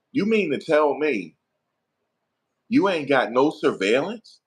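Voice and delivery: high-pitched, drawn-out disbelief; incredulous cross-examination. Acted. Lawyer cross-examining a witness about surveillance, loudly incredulous. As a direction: grill the witness slowly, voice rising in disbelief.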